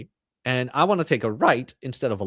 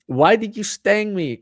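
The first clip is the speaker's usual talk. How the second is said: higher, louder, slow fable voice; fable character's question; 7 semitones higher, 5 dB louder, slower than usual. Acted. Stung animal questioning the scorpion, acted fable voice. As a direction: cry it out slowly, high and loud. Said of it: "the scorpion said".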